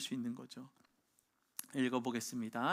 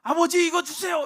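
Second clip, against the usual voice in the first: put-on child's shout; 14 semitones higher, 15 dB louder than usual. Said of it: "뭐요?".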